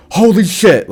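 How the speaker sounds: high startled exclamation; shocked. Retold or imitated. Doctor seeing the injured arm, high shocked gasp. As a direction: react like you just saw a wreck. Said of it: "she's like".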